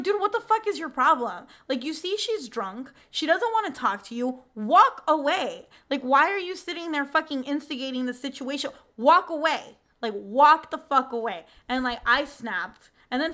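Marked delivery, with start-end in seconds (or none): 0.0-11.4 a touch louder, firm angry warning; telling him off to walk away; snapping at a creep. Retold or imitated. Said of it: "I snapped at the guy".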